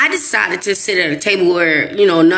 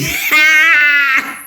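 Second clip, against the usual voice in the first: burst of laughter; 6 semitones higher than usual. Real, not acted. Laughs at Narc's purpose.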